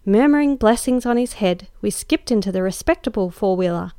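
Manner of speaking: ordinary delivery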